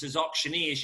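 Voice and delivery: ordinary delivery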